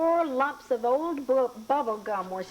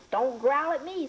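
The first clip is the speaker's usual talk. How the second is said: put-on old woman scolding; 4 semitones higher than usual. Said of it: "said the woman".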